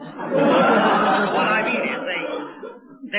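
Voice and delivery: chuckling through the words; can't keep the laugh down. Acted. Store clerk laughing at the boy on the phone, amused.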